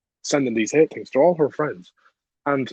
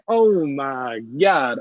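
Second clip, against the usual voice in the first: drawn-out, very slow oh my God; stunned disbelief; much slower than usual. Retold or imitated. Hearing the boy's age, slow stunned oh my God. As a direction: let the shock stretch every word. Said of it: "I was like".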